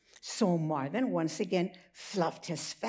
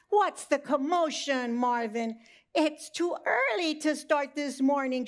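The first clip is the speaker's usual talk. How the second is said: lamb voice; 5 semitones higher than usual. Acted. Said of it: "she bleated".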